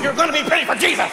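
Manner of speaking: very fast hurried mother; frantic mom. Retold or imitated. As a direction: rattle it off impatiently. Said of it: "Mom had my two younger sisters".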